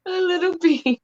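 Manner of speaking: high, light imitation of the teacher; playful mock Irish accent; mock Irish lilt. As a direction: echo the wee bean line in a silly voice. Listener mimics the teacher.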